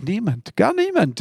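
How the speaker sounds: "gar niemand" leaps high on "niemand"; sharp pitch jump on "niemand"; emphatic denial. Acted. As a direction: insist firmly, nobody at all. Jesus firmly denying sin.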